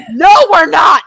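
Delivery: loud, tearful snap back; angry snap. Retold or imitated. Snapping at her friend before slamming the door. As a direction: bite back the words, upset.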